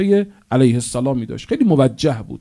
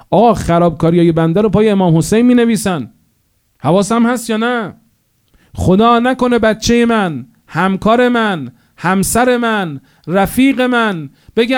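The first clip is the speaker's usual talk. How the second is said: impassioned preaching; 8 semitones higher, 3 dB louder than usual. Real, not acted. Preacher rising to emotional climax.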